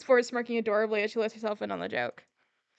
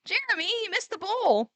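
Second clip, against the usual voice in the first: squeaky surprise; 9 semitones higher than usual. Acted. Christine squeaking after flour hit.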